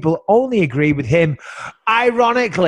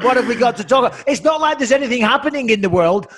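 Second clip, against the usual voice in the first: high-pitched, hammed-up worry; mock panic; 5 semitones higher than usual. Host with nothing left to fill before the guest, mock panic. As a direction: pretend to fret in a raised pitch.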